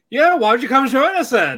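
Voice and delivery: high, lilting imitation of an invitation; mock inviting call. Retelling bathers inviting May to join them, in a high mimicking voice. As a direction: call over teasingly in a put-on high voice. Voicing girls calling to eavesdroppers.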